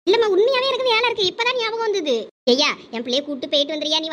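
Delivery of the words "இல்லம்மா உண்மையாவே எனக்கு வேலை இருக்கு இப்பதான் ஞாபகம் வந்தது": higher-pitched, insistent protest; protesting excuse. Acted. Friend dodging temple trip before mother, protesting in higher pitch. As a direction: plead a sudden excuse, pitch raised.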